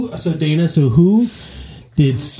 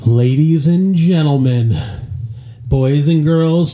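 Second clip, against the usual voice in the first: ringmaster; 5 semitones higher, slower than usual. Pretend. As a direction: announce it like a circus ringmaster. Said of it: "you gotta do your voice".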